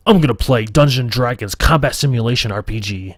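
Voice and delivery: "I'm gonna play" in a puffed-up macho voice; hammed-up tough guy announcement; mock manly voice. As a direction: sell the nerdy game as tough guy stuff. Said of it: "a little bit more manly".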